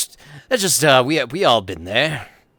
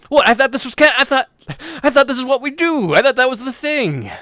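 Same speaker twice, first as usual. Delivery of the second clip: baffled protest; 12 semitones higher, 7 dB louder than usual. Acted. Character confused by town's reaction.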